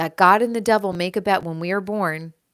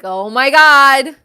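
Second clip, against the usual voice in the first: God mourning a lost child, hammed-up; acting as God; 5 dB louder than usual. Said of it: "and God is like".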